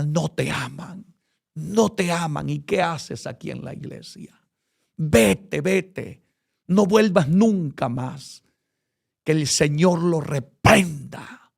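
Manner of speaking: lightly voiced tempter pushing him away; vile, cruel Satan. Preacher voicing Satan taunting him to leave church, mildly mocking. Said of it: "Satanás de una manera vil y cruel me decía".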